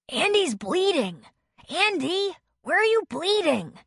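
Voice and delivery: high panicked worried mother; frantic fear for her child. A narrator's reading. Mother sees blood.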